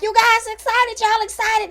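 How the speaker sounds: high, sing-song hostess cheer; mock cheery question. Hosts quizzing Stormy and Courtney, high fake cheer. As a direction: pitch it up, fake bubbly.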